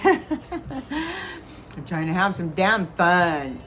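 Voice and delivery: slow, wet laugh while talking; half laugh half sob; laughing through tears. Real, not acted.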